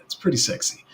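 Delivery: pretty sexy breathed out in a hushed whisper; whispered aside. Shown as a demonstration. Streamer praising the wallet to chat, whispered. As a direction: whisper it to yourself, savouring it.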